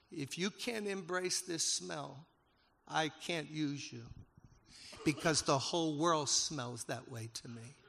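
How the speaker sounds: slow, weighty divine voice rising to a loud finish; slow solemn voice of God. Retold or imitated. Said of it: "And he spoke to me".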